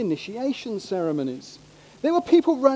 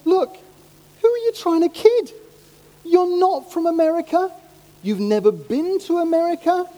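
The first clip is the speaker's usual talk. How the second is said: put-on higher-pitched exasperated challenge to posing teenagers; mock confrontation; 3 semitones higher than usual. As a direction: take them to task, pitched up at first. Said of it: "I want to go up to them and say".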